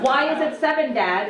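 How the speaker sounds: a half-shouted retold complaint at Dad; comic mock yell of frustration. Son snapping at father over the almonds, mock shout. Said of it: "No need to shout".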